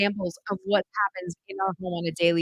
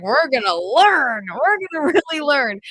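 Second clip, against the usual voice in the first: eager new homeschooler; 3 semitones higher, 5 dB louder than usual. Retold or imitated. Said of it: "and I was like".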